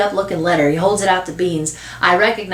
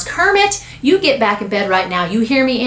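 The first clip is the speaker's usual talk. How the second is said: name pitched high, then firm order; stern mother; 4 semitones higher than usual. Acted. Mother ordering sick son to bed, stern. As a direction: scold him back to bed. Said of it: "catches sight of the boy with the glasses and frowns".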